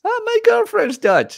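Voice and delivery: high, eager vendor voice; excited salesman. Retold or imitated. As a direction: pitch it up like the eager seller. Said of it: "salesman's line retold".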